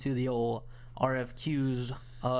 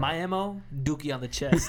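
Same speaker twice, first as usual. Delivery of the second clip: laughing. Real, not acted. Jokey answer to killer question.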